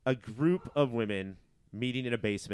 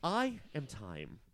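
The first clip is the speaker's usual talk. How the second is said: mock singer voice; 3 semitones higher, 8 dB quieter than usual. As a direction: drag it out like a sleepy singer. Singer bit mixed with Tar.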